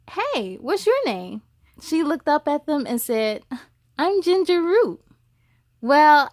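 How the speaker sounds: lively storybook reading voice; story narration. A narrator's reading. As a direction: read it like a teacher to a class. Reads story to children.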